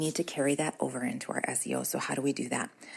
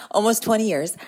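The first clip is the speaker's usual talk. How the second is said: higher and a bit louder, stunned by the number; amazed exclaim; 6 semitones higher, 6 dB louder than usual. Real, not acted. To listeners realizing her years of motherhood, amazed exclaim. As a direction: say it like you can't believe it. Shocked at her own count.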